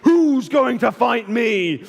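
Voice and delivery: slow, mild mock giant's yell; understated booming challenge; Goliath shouting. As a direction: draw it out like a taunting giant. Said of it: "He shouted across the valley".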